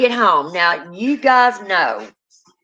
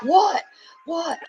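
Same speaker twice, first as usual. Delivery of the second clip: startled what; 9 semitones higher than usual. Retold or imitated. Narrator startled by the outburst.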